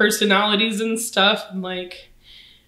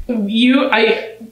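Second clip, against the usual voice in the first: blubbering; 3 semitones higher, 5 dB louder than usual. Real, not acted. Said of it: "I'm sorry I'm crying".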